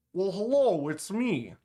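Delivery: high, swooping mock voice-changer greeting; voice-changer impression. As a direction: imitate someone talking through a voice changer. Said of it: "do an impression of a person's voice on a voice changer".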